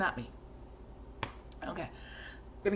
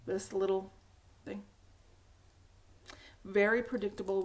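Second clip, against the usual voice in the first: ordinary talk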